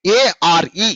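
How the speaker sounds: ఏఆర్ఈ run together as one unit; joined letters. Shown as a demonstration. Teacher modelling for pupils how to say it, ఏఆర్ఈ joined without breaks. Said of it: "చెప్పేటప్పుడు ఎలా చెప్పాలి".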